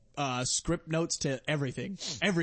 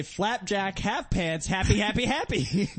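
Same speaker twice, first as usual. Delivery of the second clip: silly voice; 6 semitones higher, 3 dB louder, slower than usual. Shown as a demonstration. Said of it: "now say".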